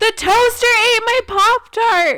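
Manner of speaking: loud yelling. Retelling yelling at friends with an open mic: retelling a loud yell. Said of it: "Really loudly".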